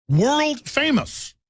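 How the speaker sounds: World famous stretched out slowly and pitched high; drawn-out sarcasm. Real, not acted. Mocking the Democrats' fraud record.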